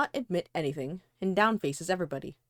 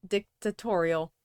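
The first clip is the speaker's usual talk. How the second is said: laughing slowly; slower than usual. Shown as a demonstration. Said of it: "Say it again".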